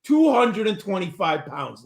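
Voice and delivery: slow and deliberate, each word spaced; careful unhurried voice. Shown as a demonstration. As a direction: spell out the weight slowly. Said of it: "let me say this slowly".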